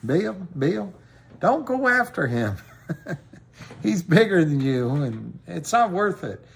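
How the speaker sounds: imitating a Southern friend holding him back; Southern woman's voice, pleading; Southern accent. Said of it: "I can't get her exact accent".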